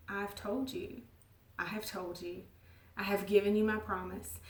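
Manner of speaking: soft, tender reassurance; quiet, loving insistence; kind and gentle. Acted. God gently reminding her of his promise, soft. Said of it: "ever so kindly and gently saying".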